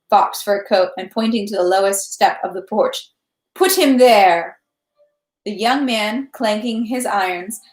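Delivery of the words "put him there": slow, raised command, louder and drawn out; stern command. A narrator's reading. Count ordering dragoons to place the prisoner, stern command. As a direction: order it firmly, stretching the words.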